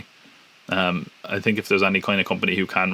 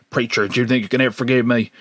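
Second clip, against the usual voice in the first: put-on big Southern accent; 2 semitones higher than usual. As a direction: plead in a mock Southern accent. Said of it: "going around with his big southern accent".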